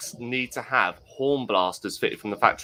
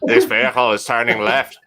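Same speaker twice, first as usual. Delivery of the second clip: Ian Paisley. Acted. Truck warning redone for the podcast as Ian Paisley, declaimed and shouted. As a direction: declaim it, then explode on the last word. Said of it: "It should be Ian Paisley".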